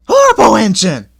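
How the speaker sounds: high, loud grumbling coach voice; grumbling coaches. A narrator's reading. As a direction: sulk at the engine. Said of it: "began to grumble".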